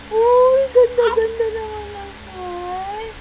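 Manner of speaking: high, drawn-out admiring coo; cooing praise. Real, not acted. Cooing praise of baby's play. (nilalambing na papuri sa baby)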